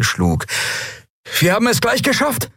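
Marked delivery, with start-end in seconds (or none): 1.4-2.5 high reptilian officer voice; lizard creature voice. Acted. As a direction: report it as the climbing reptile. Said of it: "meldete der Draxyl". (hohe Echsenstimme)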